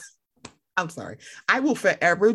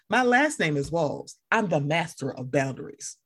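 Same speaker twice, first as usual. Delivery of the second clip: tagline delivery; 4 semitones lower than usual. Retold or imitated. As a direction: present it like a TV tagline. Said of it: "that's his tagline".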